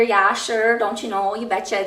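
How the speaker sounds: a light Minnesota accent, lightly imitated. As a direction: toss off a hint of folksy Minnesota accent. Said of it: "type accent".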